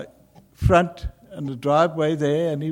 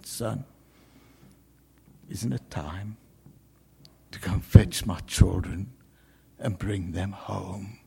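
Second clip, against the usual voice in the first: tender father; 7 semitones lower than usual. Retold or imitated. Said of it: "the Father ... saying".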